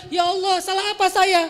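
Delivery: aggrieved outburst at God; mock indignant complaint. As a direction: whine it up as an offended demand. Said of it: "kok malah dibalik".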